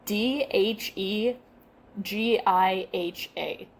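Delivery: slow, letter-by-letter spelling of D H E G I H A; spelled out letter by letter. Shown as a demonstration. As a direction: spell D H E G I H A out slowly, one letter at a time. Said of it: "I'm gonna spell it".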